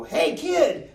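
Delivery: high mock shout of hey kid; calling out. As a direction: yell it across the track, half-acted.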